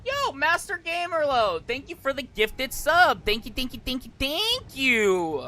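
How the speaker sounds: high, bright excited thanks; cute anime streamer. Real, not acted. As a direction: gush thanks to a viewer. Thanking a viewer for gifted sub.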